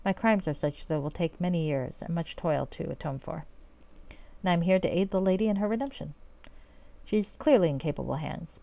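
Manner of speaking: formal, courtly role-play delivery; in-character reading. Acted. Knight and grateful mayor trade thanks, courtly in-character reading. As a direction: read it as measured fantasy dialogue. Reads game dialogue in character.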